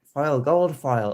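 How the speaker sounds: slow, loud, savouring each word; drawn-out admiration. Real, not acted. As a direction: stretch it out in awe. Admiring gold foil cover.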